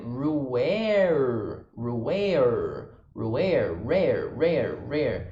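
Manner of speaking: "rare" with two curled r sounds back to back; tongue-twisting rare. Shown as a demonstration. Teacher drilling the tricky rare for students. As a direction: curl the tongue for both r's in "rare". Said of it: "dar uma embolada na língua".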